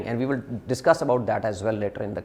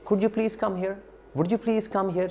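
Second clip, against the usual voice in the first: higher, softer, courteous asking; polite request; 6 semitones higher, 4 dB quieter than usual. Shown as a demonstration. Teacher shows students the polite way to ask, courteously. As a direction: ask nicely, like a favour. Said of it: "is more polite in my opinion".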